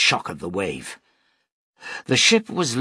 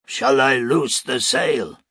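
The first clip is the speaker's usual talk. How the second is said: shouted; 3 semitones higher, 4 dB louder, slower than usual. A narrator's reading. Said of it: "Cornales shouted".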